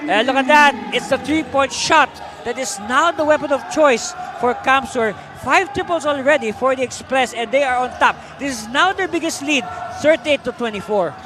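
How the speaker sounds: animated basketball commentary, voice lifted; live play-by-play. Real, not acted. Commentator telling viewers of the biggest lead, excited play-by-play. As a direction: call the made three with punch and momentum.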